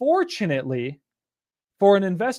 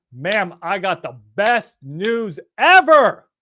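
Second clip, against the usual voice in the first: excited; 2 semitones higher, 4 dB louder, much slower than usual. Shown as a demonstration. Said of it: "No, you say".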